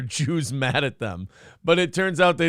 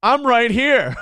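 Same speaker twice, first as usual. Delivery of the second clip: Ace Rothstein; 5 semitones higher, 4 dB louder than usual. Retold or imitated. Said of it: "He really did just do Ace Rothstein".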